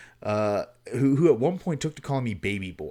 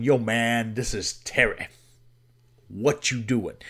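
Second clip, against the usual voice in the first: imitating Terry. Terry phoning his friend at dawn, lightly imitated. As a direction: drop into Terry's easy drawl without overdoing it. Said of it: "This is how he talked".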